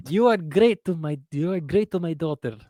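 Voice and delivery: a lightly voiced father-in-law giving grudging praise; half-hearted impression of a proud in-law; mock father-in-law. Teasing cohost with his father-in-law's praise, light mock voice. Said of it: "you sound like father-in-law".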